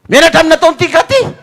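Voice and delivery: high loud laughing yell; mock shout. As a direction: shout back, half laughing. Wife shouting.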